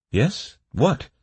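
quick hopeful lift in pitch; shy hope. A narrator's reading. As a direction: ask with timid, eager hope. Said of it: "inquired with a shy hope".

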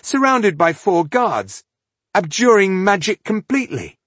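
high, loud, slowing horror; horrified. A narrator's reading. Rodario picturing the queen under guard, horrified. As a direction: spell out each awful condition in horror.

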